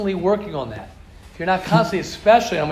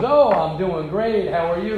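slow, drawn-out earnest reply; mock-earnest friendly small talk; sincerely interested; 3 dB louder than usual. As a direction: answer as if you really mean the question. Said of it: "he really meant the question".

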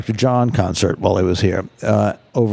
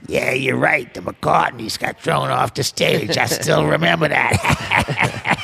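slow, unhurried imitation of the old musician; the musician's voice; 3 semitones higher, slower than usual. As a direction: drag it out lazily, like the musician reminiscing. The musician voiced recalling.

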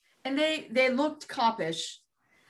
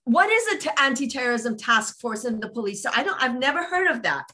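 loud, agitated; 4 dB louder, faster than usual. Retold or imitated. Mother retelling her grilling of the officers, loud and agitated. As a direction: demand an answer, then rattle off disbelief. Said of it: "I'm getting loud, I'm getting agitated".

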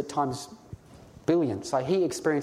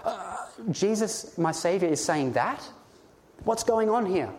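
bewildered reaction; 3 semitones higher than usual. Retold or imitated. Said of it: "We're like".

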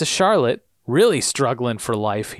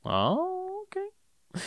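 mock surprise; 10 dB quieter, much slower than usual. Real, not acted. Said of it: "mock surprise".

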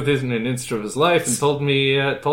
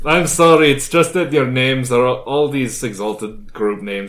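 put-on Transylvanian accent; 4 dB louder than usual. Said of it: "Transylvanian accent".

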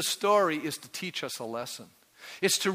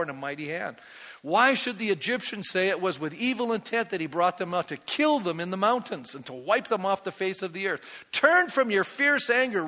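pleading with God; 3 semitones higher than usual. Retold or imitated. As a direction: beg God to relent, building to a peak. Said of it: "Moses now is pleading".

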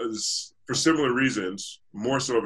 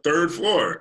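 laughing; 6 semitones higher, 3 dB louder than usual. Real, not acted. Amused echo of mall floor.

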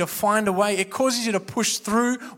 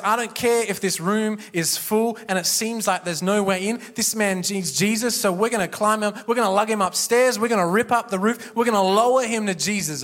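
determined, building; 2 semitones higher, 3 dB louder than usual. Retold or imitated. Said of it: "Compassion says".

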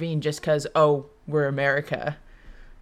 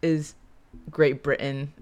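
sarcastic; 5 dB louder than usual. Real, not acted. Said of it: "I'm saying that sarcastically".

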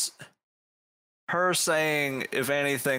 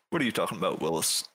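put-on lower, gruff old man; old man's voice in his head, lower; older voice; 6 semitones lower, much faster than usual. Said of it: "In a much older voice".

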